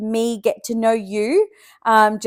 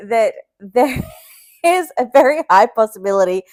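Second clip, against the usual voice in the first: laughing warning; 2 semitones higher, 3 dB louder than usual. Real, not acted. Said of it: "be warned".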